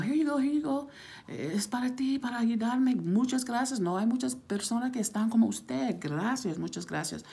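high-pitched grateful re-enactment; effusive thanks. Retold or imitated. Retold grateful thanks while tipping.

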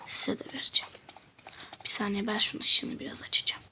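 soft whispered aside; whispering. Real, not acted. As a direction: drop to a whisper. Whispered aside while playing.

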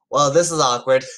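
slight, accidental British accent; lightly British-accented reading. Real, not acted. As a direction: let a hint of British slip into it. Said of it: "say that in a British accent".

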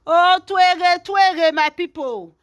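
high, loud, drawn-out outcry; gossip's loud, high lament; scandalised exclamation. Real, not acted.

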